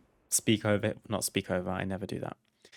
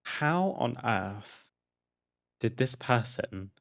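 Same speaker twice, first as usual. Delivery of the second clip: incredulous; slower than usual. Real, not acted. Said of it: "I personally really think".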